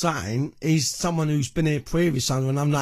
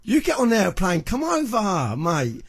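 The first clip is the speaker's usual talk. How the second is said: taunting challenge; 4 semitones higher than usual. Real, not acted. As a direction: call him out to come over. Taunting his rival on the mic.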